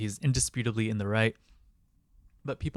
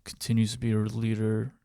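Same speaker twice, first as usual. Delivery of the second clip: John Fetterman. Acted. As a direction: plod through the statement as an impersonated politician. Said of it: "read it in John Fetterman's voice".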